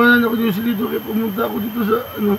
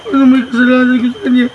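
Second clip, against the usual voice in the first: crying; 6 dB louder than usual. Acted. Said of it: "Ay, hilak na di".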